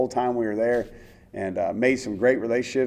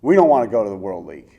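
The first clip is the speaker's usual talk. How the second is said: loud, earnest plea to the Lord; pleading prayer; 5 dB louder than usual. Retold or imitated. Player and wife praying not to be sent away, loud pleading. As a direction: beg God not to send you. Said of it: "we start praying".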